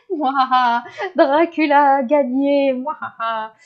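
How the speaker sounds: a light Dracula gloat; Dracula villain laugh. Pretend. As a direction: gloat like a hammy vampire. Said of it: "Je voulais faire un mouahaha".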